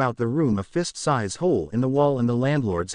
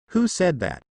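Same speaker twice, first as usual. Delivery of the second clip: startled; 5 semitones higher than usual. A narrator's reading. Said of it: "Naruto is startled by the voice".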